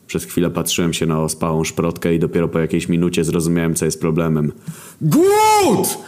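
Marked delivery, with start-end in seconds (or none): 5.0-6.0 very high, loud scream of the name; yell. Acted. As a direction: scream so the locals nearly run. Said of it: "wydarłem się tak". (bardzo wysoki, głośny wrzask)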